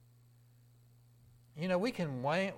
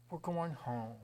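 softer echo; 6 dB quieter than usual. Acted. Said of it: "graduation day".

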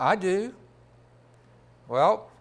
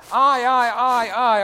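mock boastful, louder and higher; loud repeated I; 3 semitones higher, 7 dB louder, slower than usual. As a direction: hammer each "I" like a braggart. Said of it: "he kept saying".

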